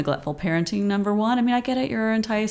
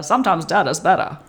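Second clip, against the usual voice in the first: light Maine accent on the vowels; old-time Maine neighbor accent; 3 semitones lower than usual. Shown as a demonstration. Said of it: "try your best Maine accent".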